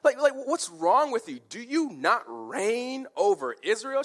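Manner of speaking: high, loud, incredulous rant; scornful scolding. Acted. Wife berating her sulking king in bed, scornful tirade. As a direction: berate him with rapid-fire rhetorical questions. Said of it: "She just looks at him, pathetic".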